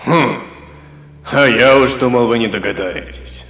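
grave voice with a sarcastic edge; mock them coldly from the grave; sepulchral sarcasm. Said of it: "своим замогильным голосом с долей сарказма".

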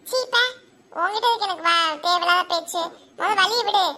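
sharp opening, impatient dismissal; irritated brush-off. Acted. Telling the one blocking the way to move, irritated. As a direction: push them aside with annoyed words.

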